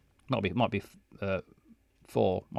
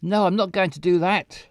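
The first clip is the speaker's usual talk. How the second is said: indignant refusal; 5 semitones higher, 4 dB louder than usual. Acted. Character refusing.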